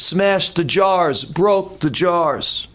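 "smashed" and "broke" leaned on, slow and deliberate; emphatic. Shown as a demonstration. Preacher underlining how the jars broke, slow heavy emphasis.

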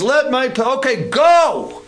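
mock frantic Pharaoh; exasperated Pharaoh. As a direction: beg them to just leave. Pharaoh caving, pleading.

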